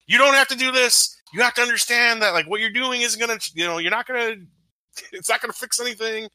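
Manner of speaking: high, hurried mock plea to captors; imitated pleading. Imitating the hero reasoning with the islanders, high pleading. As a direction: imitate a man trying to talk his way out, pitched high. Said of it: "he's going through all the things".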